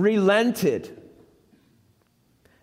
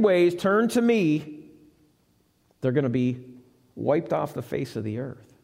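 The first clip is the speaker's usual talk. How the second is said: stern voice of God; 7 semitones lower than usual. Acted. God sending Jonah to Nineveh again, lower grave voice.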